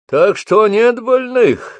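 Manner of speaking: high, angry, slow shout. A narrator's reading. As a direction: snap it out in anger. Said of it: "рассердился Обух".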